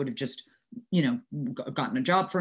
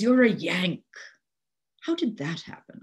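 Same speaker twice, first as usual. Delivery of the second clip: father's mock dismay; 3 semitones higher than usual. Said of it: "He goes".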